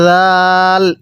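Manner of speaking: জাল with a soft z-like start, long-held aa. Shown as a demonstration. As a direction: ease into জাল and stretch it slowly. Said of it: "এরকমভাবে শিখব". (জাল নরম করে টেনে)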